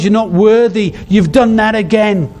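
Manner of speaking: the enemy taunting the believer, mocking; voice of the accuser. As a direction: sneer like the enemy whispering condemnation. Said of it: "He'll tell us".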